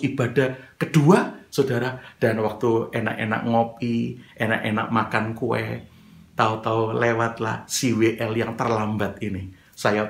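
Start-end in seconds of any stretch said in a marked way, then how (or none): none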